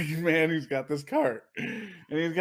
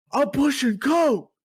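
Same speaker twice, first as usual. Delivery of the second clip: shrill, high-pitched, loud, sudden fully yelled outburst; 10 semitones higher, 7 dB louder than usual. Speaker retelling a man shelving Coke who yelled at them, retelling a yell. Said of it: "he literally yells".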